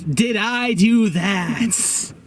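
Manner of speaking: slow nerdy Urkel-style drawl; Urkel catchphrase. Retold or imitated. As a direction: do the sitcom nerd line slowly. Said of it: "he becomes Stefan Urkel".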